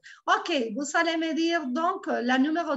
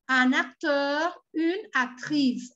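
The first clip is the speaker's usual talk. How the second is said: slow, clear drill of word pairs; slower than usual. Shown as a demonstration. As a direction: model each form slowly for learners. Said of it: "teacher drills word pairs slowly".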